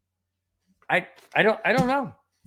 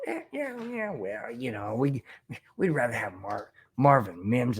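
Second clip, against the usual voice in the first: mocking the NFL; 7 semitones lower, 7 dB quieter than usual. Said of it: "And the N F L goes".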